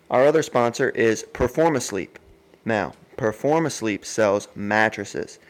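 upbeat, conversational sponsor read; podcast ad read. Real, not acted. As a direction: pitch the sponsors in an easy, lively host voice. Reads the sponsor ads.

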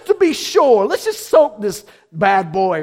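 loud swaggering quip; casual Elijah. Retold or imitated. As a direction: toss it off like a cocky showman. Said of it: "he's like".

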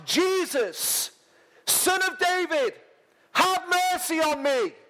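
high, pleading call; crying out. Acted. Blind Bartimaeus crying out to Jesus for mercy. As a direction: plead at the top of his voice.

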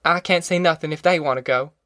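lightly voiced stubborn country mother; resolute Ma. Ma refusing to see the family bust up, understated resolve. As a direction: lay down the law, steadily.

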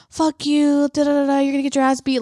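half-hearted imitation of a heckler; mock trash talk. Family heckling the other fighter, mock trash talk. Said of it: "literally talking shit to the other fighter".

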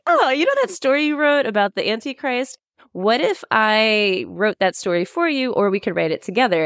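high, lightly voiced Terry on the phone; chirpy pitch-up impression of Terry; mock Terry voice. Terry's call retold, high voice.

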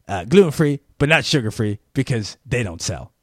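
mock a mildly rude counter worker; rude shop clerk. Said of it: "my interpretation of how she came across".

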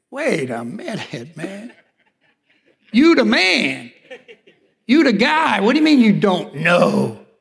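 half-laughing, can't believe the answer; stunned disbelief. Retold or imitated. To the evangelist who says he doesn't know, incredulous. Pastor retells his stunned reaction.

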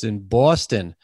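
put-on Canadian trying a Boston accent; a light stab at Boston, saying Boston as Pawston; attempted Boston accent. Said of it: "how am I doing with my Canadian accent on the New England accent".

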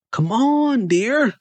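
high-pitched urging order; commanding. A narrator's reading. Narrator hurrying Melissa at the entrance, commanding. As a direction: order her along, pitched well up. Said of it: "I commanded Melissa".

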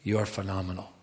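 soft, quiet wonder; quiet awe before Jesus; awed, hushed. Retold or imitated. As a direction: speak it like a private prayer. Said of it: "I go".

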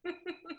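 short soft laugh. Real, not acted. Vocal coach amused by the host, soft laugh. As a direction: laugh softly to yourself. Amused at being called the client.

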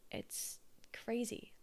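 slow whisper of disbelief; whispered exasperation. Real, not acted. Exasperated at unsolicited advice, slow whisper. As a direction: breathe it out slowly, amazed.

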